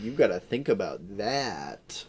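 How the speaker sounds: slow, drawn-out teasing question and oohs; sarcastic intrigue, drawn out; mock mysterious. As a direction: stretch it out as if posing a deep puzzle. Mocking the film's pretend cleverness.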